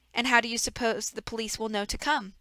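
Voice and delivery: a hint of a smug, fake-sorry villain; lightly voiced villain. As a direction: play the false grief of a schemer. Reader voices villain Stefano.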